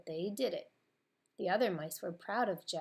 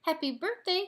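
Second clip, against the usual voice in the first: much higher, louder squeaky blurt; confused mouse cry; 11 semitones higher, 7 dB louder than usual. A narrator's reading. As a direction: blurt out the wrong greeting, muddled. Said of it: "cried a confused Gus".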